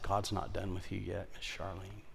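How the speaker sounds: very soft, tender promise; said in love. Retold or imitated. Pastor lovingly telling Miss Charlene her life isn't over, soft. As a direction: lay it on her gently, in love. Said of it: "and in love, I said".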